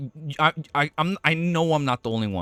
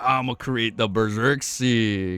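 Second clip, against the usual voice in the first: lightly lowered, slow mock villain voice; 4 semitones lower than usual. Streamer voicing Death wiping out the map, slow mock villain. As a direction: play Death as a gloating villain, half in jest.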